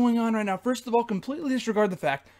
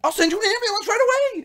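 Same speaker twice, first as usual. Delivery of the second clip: doctor voice; 11 semitones higher, 4 dB louder than usual. Retold or imitated. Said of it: "And he said".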